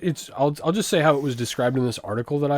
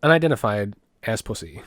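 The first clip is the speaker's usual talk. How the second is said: half-hearted impression of a pundit; Ben Shapiro; 2 semitones lower than usual. Co-host requests the impression, lightly attempted Ben Shapiro voice. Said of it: "do it in the Ben Shapiro voice".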